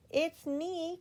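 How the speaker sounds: calling out. A narrator's reading. Mister Happy calling through Miss Giggles's front door. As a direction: call it to someone inside the house. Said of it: "called out Mister Happy".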